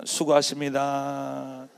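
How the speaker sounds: slow greeting. Shown as a demonstration. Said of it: "서로 인사하세요".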